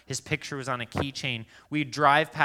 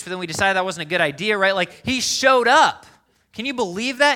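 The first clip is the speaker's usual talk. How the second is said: breathless hype climbing ever higher; excited gossip; 7 semitones higher, 10 dB louder than usual. Retold or imitated. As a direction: gush about the celebrity visit. Church friend hyping Tom Brady visit.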